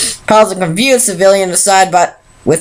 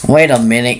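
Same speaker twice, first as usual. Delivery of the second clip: growling; 7 semitones lower than usual. A narrator's reading. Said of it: "growled Spike".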